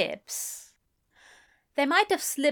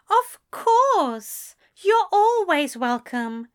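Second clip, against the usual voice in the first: bright, much higher and louder; beaming; 11 semitones higher, 5 dB louder, slower than usual. A narrator's reading. Aziraphale welcoming Crowley, beaming and much louder. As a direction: burst out delighted. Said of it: "Aziraphale beamed".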